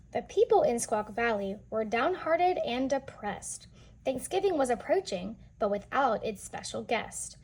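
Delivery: lively storybook reading voice; read-aloud narration. A narrator's reading. Teacher reading a picture book to children, lively storytelling. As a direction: read the rhyme to the kids with bounce.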